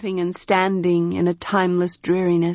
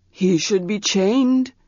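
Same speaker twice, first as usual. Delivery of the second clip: Manon's voice; slower than usual. Acted. Manon advises.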